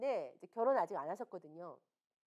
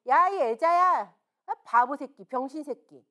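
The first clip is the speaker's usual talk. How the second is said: mock bully's taunt; 10 dB louder than usual. Bully mocking a disabled person in the street, loud jeering. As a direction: jeer at a passerby like a street bully.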